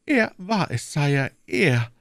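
high, insistent queen; the queen blames the cardinal, urgent; accusing queen. Acted. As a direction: pin it on him.

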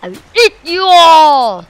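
hammed-up hungry villain; mock shark threat. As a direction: threaten them like a pretend monster.

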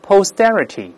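posterity with the t after s voiced like a d. Shown as a demonstration. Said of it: "这个中间要浊化". (posterity中s后的t浊化读成d)

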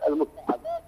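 choppy broken phone line; corrupted glitchy audio. Real, not acted. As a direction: voice cutting in and out. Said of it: "عذرًا الصوت متقطع".

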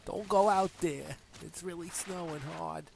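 high, loud mock old-timer warning; crazy old person. Mocking partner's snow warning, crazy old person. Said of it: "like a crazy, like, old person".

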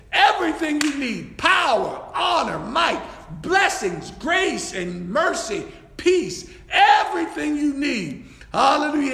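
rousing preacher's roll call; fervent preaching. Real, not acted. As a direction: preach each item out emphatically. Preacher lists God's gifts fervently.

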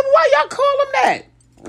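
asked high through real laughter, slowly; laughing question. Real, not acted. Asking neighbors why they call the cat that, laughing high.

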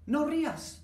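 high, loud mock order; mock scolding. Teacher to laughing student, loud mock command. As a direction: bark the command at a giggling student, hammed-up.

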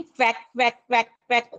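mild quack; duck quack. Shown as a demonstration. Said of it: "अशा पद्धतीचा आवाज duck काढतं".

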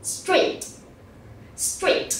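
"Street" with the final t clearly released; final sound pronounced. Shown as a demonstration. Teacher reminds pupils of endings, "Street" with a clear final t. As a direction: finish "Street" on an audible t. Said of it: "các em nhớ phát âm âm cuối".

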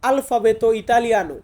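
আলফাবেতো ইতালিয়ানো said the Italian way, al-fa-BE-to i-ta-li-A-no; Italian pronunciation. Shown as a demonstration. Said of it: "Italian ভাষাতে বলবো". (Italian উচ্চারণে আলফাবেতো ইতালিয়ানো)

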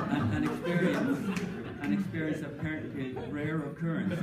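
words squeezed out between laughs; amused, laughing delivery; laughing through words. Real, not acted. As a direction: still laughing while talking.

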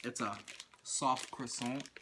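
croissant with a French lilt; French accent. Acted. Reading the pastry label aloud, slipping into a French accent. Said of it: "like, French accent".

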